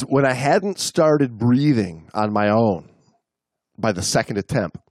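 measured read-aloud storytelling; story narration. A narrator's reading. Reading a diver's account to the co-host, story narration. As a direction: read it out in deliberate phrases, pausing between them.

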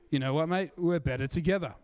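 hammed-up Aussie mate accent; playful broad Australian accent demo. Shown as a demonstration. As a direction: put on your best Australian accent. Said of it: "with your best Australian accent".

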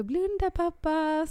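high, slow teasing command; surprising dad with a gift; playful surprise. Retold or imitated. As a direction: tell dad to close his eyes, playfully.

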